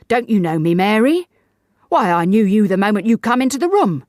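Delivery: husband calls out to his wife, loud and high; loud appeal. A narrator's reading. Davis reveals himself to Mary.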